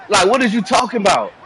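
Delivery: incredulous shout. Real, not acted. Mocking his friend's complaint with a real shout. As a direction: yell it in disbelief. Arguing with friend over game.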